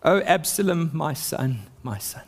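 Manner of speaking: a mild, grieving lament that fades away to almost nothing; grieving cry. Acted. Father mourning his dead son Absalom, fading lament. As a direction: let the grief sink into a near silent my son. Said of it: "he cried".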